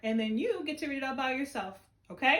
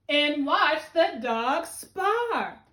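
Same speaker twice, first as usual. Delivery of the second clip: slow and a little louder on "And watch the dog spar"; excited exclamation; 2 semitones higher, 6 dB louder, much slower than usual. Shown as a demonstration. Teacher modelling the exclamation mark for her class, excited. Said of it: "read it with excitement and our voice goes higher".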